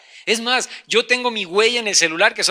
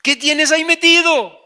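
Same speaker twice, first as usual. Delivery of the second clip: higher, forceful question; insistent demand; 4 semitones higher, 4 dB louder than usual. Acted. Wife questioning husband about his safe, forceful. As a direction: demand an answer, pressing harder. Wife's question repeated, louder.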